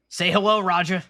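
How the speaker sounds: a light pirate growl to his parrot; hammed-up pirate captain voice. Hook-handed pirate telling his parrot to speak, lightly gruff. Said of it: "That's my pirate voice, I guess".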